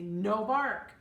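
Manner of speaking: loud, firm "No bark"; stern command. Shown as a demonstration. Dog breeder showing how she scolds a whining puppy. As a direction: bark the order at the pup. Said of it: "and I say".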